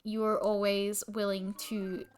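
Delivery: telling sleeping Michael why he is loved, tenderly; tender compliment. Real, not acted. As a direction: speak it gently to your partner. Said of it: "you want me to compliment Mike".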